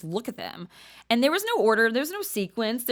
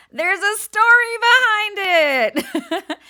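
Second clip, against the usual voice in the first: slow, laughing and higher; 12 semitones higher, 10 dB louder, much slower than usual. Real, not acted. Speaker to audience, laughing through the tattoo punchline.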